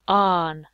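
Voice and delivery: "aan" said loud and on its own; loud, isolated "aan" ending for learners; stressed ending. Shown as a demonstration. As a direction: punch the ending "aan" clearly. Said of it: "Tänne sanan loppuun sinä panet".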